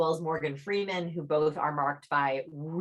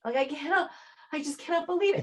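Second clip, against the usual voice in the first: high-pitched disbelief; 11 semitones higher than usual. Shown as a demonstration. Demonstrating disbelief head nod.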